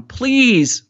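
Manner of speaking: high, drawn-out plea; begging. A narrator's reading. Boy hanging on as man pries him loose, begging. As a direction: beg desperately, pitch soaring then falling. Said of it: "Mahmoud begged".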